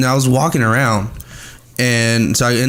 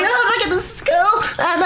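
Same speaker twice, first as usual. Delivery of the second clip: mock delight. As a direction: coo over it like a delighted tourist. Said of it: "I'm like".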